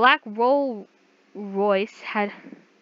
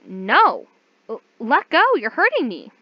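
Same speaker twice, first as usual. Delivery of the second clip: frightened cry to let go; panicked protest; 4 semitones higher, 6 dB louder than usual. Acted. Captive cries out as he grips her wrist, afraid. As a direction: pull away and plead, scared and loud. Captive resisting grab, crying out.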